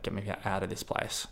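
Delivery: thinking it to yourself in despair; despairing inner plea. Retold or imitated. Stuck in the ward, a soft despairing plea to himself.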